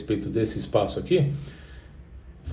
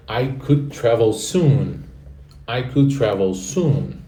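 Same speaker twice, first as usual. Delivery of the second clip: slow model sentence; slower than usual. Shown as a demonstration. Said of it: "Repete em voz alta".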